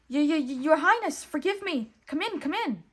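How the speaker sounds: high, loud stuttering flunky voice; stammering weasel. A narrator's reading. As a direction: grovel and stammer before royalty. Weasel stammering, bowing to royalty.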